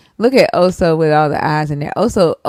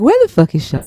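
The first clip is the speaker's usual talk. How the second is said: pitched-up joking shout for a missing friend; mock call-out; 6 semitones higher than usual. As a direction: yell it out like you miss her, half joking. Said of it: "we be like".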